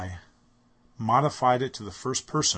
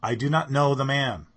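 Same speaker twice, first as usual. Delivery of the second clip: louder, higher sworn denial; firm denial, louder; denial with an oath; 4 semitones higher, 7 dB louder than usual. Acted. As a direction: push him away with the words. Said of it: "denied it with an oath".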